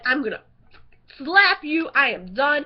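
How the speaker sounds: play-angry, emphatic comeback; hammed-up end of patience; mock fed-up retort. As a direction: snap back in pretend exasperation. Retold fed-up retort to child.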